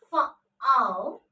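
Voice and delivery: "F, O" as separate sounds, fuh, ow. Shown as a demonstration. Teacher showing how to pronounce profound, "F, O" sound by sound. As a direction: say "F" alone, then "O" as an ow diphthong. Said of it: "How to pronounce it?".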